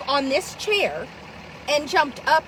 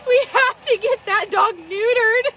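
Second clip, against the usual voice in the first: louder insistent plea; 4 semitones higher than usual. Retold or imitated. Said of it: "And I'm like".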